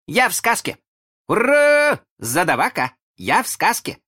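very high, loud cheering; squealing child's hurrah; overjoyed boy. A narrator's reading. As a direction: shout it out in childish triumph. Boy learns he is in story.

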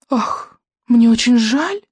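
high, falsely sweet coo; cooing witch. A narrator's reading. The witch to Kamikaze, a high mock-pitying coo. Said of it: "проворковала ведьма".

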